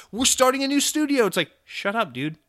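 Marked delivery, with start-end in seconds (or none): 0.1-1.3 high, loud proclamation; mock shout, much higher and louder; mock rooftop shout. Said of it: "start shouting on the rooftops".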